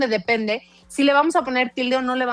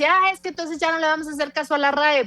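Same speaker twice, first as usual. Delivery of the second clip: higher-pitched mock complaint; imitated objectors; 5 semitones higher than usual. Guest retelling what people wrote to her, imitated protest. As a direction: quote the protesters in a raised voice. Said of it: "me escribían así".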